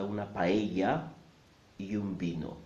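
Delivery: "paella" as pa-EH-ya, "vino" with a b; correct Spanish pronunciation. Shown as a demonstration. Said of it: "say them correctly".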